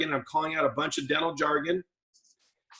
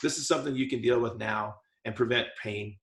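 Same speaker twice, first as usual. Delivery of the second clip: reassuring dentist; 5 semitones lower, 3 dB quieter than usual. Shown as a demonstration. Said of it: "Here's the right way. Tone of voice".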